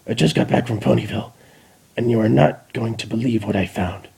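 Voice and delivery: fast, breathless messenger; excited spy. Acted. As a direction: rush the news out. Spy brings news.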